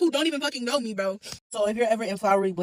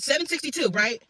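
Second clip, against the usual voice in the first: mocking double-check. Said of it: "She looked at me and said".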